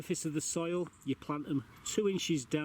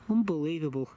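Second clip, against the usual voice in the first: louder disbelieving groan; exasperated; 5 dB louder than usual. Real, not acted. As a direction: complain in disbelief. Cat interrupting.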